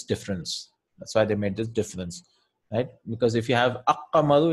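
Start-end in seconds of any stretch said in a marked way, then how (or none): 3.9-4.5 aqqamaru with the l swallowed into a doubled q; wrong assimilated article. Shown as a demonstration. Teacher shows students the wrong pronunciation aqqamaru. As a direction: say aqqamaru as the wrong, weird-sounding form. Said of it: "it sounds very weird".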